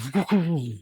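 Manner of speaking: soft rumbling sound effect made by mouth; imitated crashing noise. Reviewer voicing the comic's action, soft imitated noise. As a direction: mimic a comic-book rumble.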